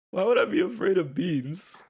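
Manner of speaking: high, loud, laughter bubbling under; holding back a laugh. Real, not acted. Retelling the denial to viewers, fighting laughter. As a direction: try not to crack up. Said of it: "I'm trying not to laugh".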